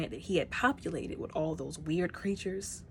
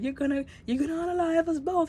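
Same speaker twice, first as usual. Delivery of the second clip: voiced character; 11 semitones higher, 4 dB louder than usual. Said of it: "and he was like".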